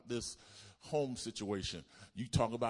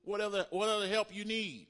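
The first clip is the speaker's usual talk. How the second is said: voicing Jesus; 10 semitones higher than usual. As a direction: speak as Jesus, weighty. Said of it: "He said".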